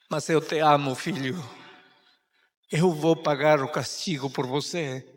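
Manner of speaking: mother's gentle promise; tender love. Acted. Mother tells son her love.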